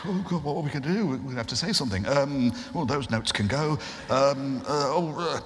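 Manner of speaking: fast, flustered babble; panicking. Retold or imitated. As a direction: scramble for words. Panicking mid prank call.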